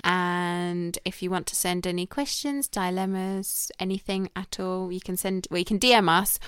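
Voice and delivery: slow, drawn-out outro plug; measured podcast outro; podcast sign-off. Real, not acted. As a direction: wrap up the show, stretching the words slowly.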